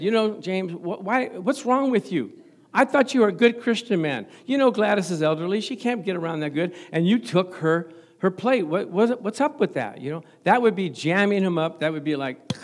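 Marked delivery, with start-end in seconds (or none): 0.0-10.0 half-hearted scolding, pushing a bit louder and higher; mock accusation. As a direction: play at cornering him over the plate, not fully angry. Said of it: "if I jammed him up and said".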